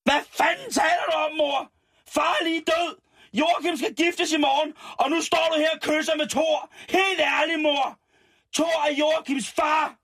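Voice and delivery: high falsetto wail, hammed-up sobbing; sobbing Lotte. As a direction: wail it out like a soap heroine in despair. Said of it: "Hulkede Lotte".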